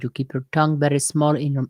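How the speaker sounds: French accent slipping toward Spanish; botched French accent, small mouth; failed French accent. Shown as a demonstration. Teaching French accent, French drifting into Spanish. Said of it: "We switched to Spanish".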